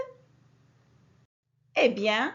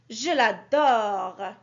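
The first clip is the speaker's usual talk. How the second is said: slow, lower, loving delivery; fond exclamation; 5 semitones lower, much slower than usual. Shown as a demonstration. Teacher demonstrating an emotional exclamation, slow and loving. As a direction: linger on it like you truly adore it. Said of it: "sert à exprimer une émotion".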